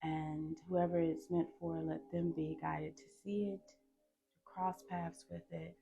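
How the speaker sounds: softly spoken invocation; spoken prayer. Real, not acted. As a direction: ask Spirit in, softly and with pauses. Prays aloud to Spirit.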